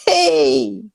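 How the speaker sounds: high, loud, drawn-out hey; excited, loud high-pitched welcome; delighted greeting. Real, not acted. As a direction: greet a dear friend who has finally appeared. Friend finally joins the live call.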